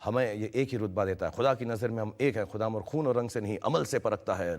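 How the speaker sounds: put-on reciting old stage lines from memory; measured delivery of remembered theatre dialogue; recited play dialogue. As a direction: recite it like a classic stage monologue. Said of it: "आज तक वो प्लेस के dialogues याद हैं".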